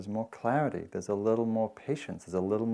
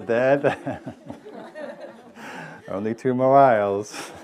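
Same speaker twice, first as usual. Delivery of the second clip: there there said through laughter, a touch higher; giggling as she mocks the soothing mother; laughing replay; 4 semitones higher, 4 dB louder, slower than usual. Teacher retelling the punchline to students, laughing through it.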